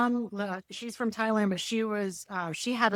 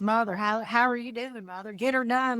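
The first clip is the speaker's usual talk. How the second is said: put-on Southern accent; 2 semitones higher than usual. Cowboy son talking to his mother, imitated Southern accent. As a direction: mimic a son's country accent. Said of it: "he had a really heavy Southern accent".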